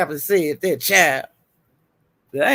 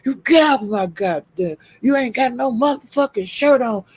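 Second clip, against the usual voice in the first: imitating angry man; 3 semitones higher than usual. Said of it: "he was talking like that".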